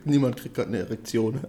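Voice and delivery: close-miked, right in your ear. Real, not acted. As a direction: lean into the mic, ASMR style. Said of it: "Ich bin ganz nah am Mikro grad".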